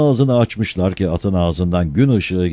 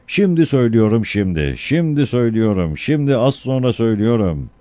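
town crier; 3 semitones higher, 3 dB louder than usual. Acted. Town crier announcing to villagers.

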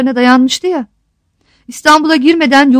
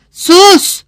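shouting; 6 semitones higher than usual. A narrator's reading. Melek Hanım silencing her son, shouting. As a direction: cut him off with a cry. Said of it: "diye bağırdı Melek Hanım".

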